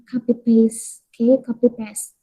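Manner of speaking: "copy paste" said kapi peyst; correct copy paste. Shown as a demonstration. Teacher repeats the right "copy paste" for students. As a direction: say it the English way. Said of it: "Cobalah diucapkan dengan".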